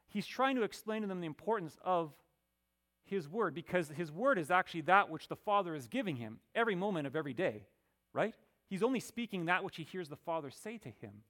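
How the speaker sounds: insistent sermon delivery; emphatic preaching. Acted. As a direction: press the point home forcefully. Preaching the explanation forcefully.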